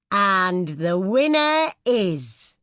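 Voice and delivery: slow, drawn-out suspense announcement; announcer build-up. Retold or imitated. Ring announcer teasing the Olympic winner to the crowd, slow and suspenseful.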